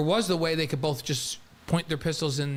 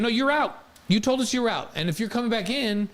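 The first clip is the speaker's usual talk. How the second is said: mock indignant demand; 5 semitones higher than usual. Voicing the conference demanding money.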